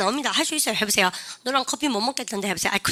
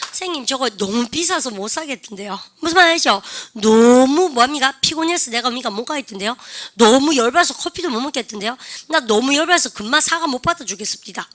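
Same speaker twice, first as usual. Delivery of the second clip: louder, exasperated complaint; acted frustration; 4 dB louder than usual. 감정 표현을 연기하며 학생이 화난 듯 말함. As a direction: play up the frustration like a fed-up student. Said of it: "선생님 막 연기가 좀 늘죠".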